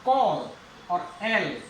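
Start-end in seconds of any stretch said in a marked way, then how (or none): 0.1-0.5 कॉल with a long open "o"; long O sound. Shown as a demonstration. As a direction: hold the vowel in कॉल before the L. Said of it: "long sound ओ की". (कॉल में लंबी ओ की आवाज़)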